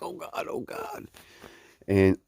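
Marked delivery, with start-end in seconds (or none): 0.0-1.1 strained, much softer and much higher, squeaking out; like you're choking back a laugh in class; stifled laughter. Retold or imitated. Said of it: "and then you're like".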